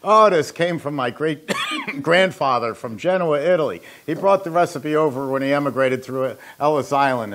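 hammed-up Italian accent, rattling it off; fake Italian accent. Pizza man rattles off family legend in a mock Italian accent. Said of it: "rattle off in a fake Italian accent".

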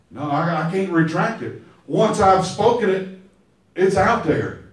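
low, quiet final refusal; gently firm, nothing can be undone; old father telling his son, low and resigned. Retold or imitated. Isaac refusing.

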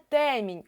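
ТЕМІНЬ with a clear stressed Е; чітке Е. Shown as a demonstration. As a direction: lean on the Е in ТЕМІНЬ. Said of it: "Чітко чуємо е". (ТЕМІНЬ з чітким Е)

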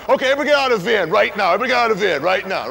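fast, urgent barked order; rapid order. Retold or imitated. Driver waving a gun orders everyone out, fast urgent bark. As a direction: rush everyone out at gunpoint.

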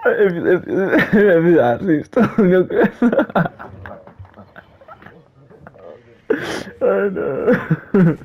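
words broken by laughter; laughing while talking. Real, not acted. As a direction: try to talk through the giggles. Laughing while trying to talk.

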